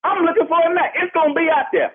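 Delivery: riled-up man challenging the neighbor; heated. Real, not acted. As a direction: dare him to come for the pit. Threatened over his barbecue pit.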